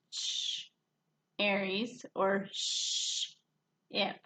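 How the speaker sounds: "Ch, Aries" with a clipped ch set against a hissed "sh, ip"; contrasting ch and sh. Shown as a demonstration. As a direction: split off the first sounds to compare. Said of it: "This one's kind of tricky".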